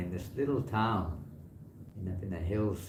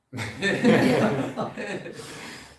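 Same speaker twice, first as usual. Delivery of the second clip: loud laugh; 12 semitones higher, 11 dB louder than usual. Real, not acted. Laughing at the kid's outburst.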